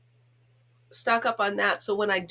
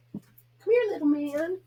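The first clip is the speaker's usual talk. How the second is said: much higher, squeaky coaxing of the dog; 8 semitones higher, slower than usual. Real, not acted. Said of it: "I know I'm a goof with him".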